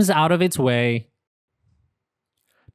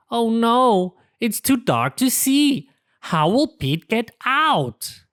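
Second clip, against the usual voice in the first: narrator worry; 6 semitones higher than usual. A narrator's reading. Narrator worries as the cave goes dark, mock alarm. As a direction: build suspense for kids.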